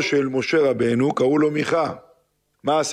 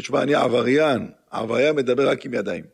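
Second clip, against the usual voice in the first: a hint of a street thug bragging; lightly voiced tough criminal; 4 semitones lower than usual. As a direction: say it like a small-time criminal, half mocking. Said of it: "אמר לי". (עבריין מתרברב בקול קשוח קל)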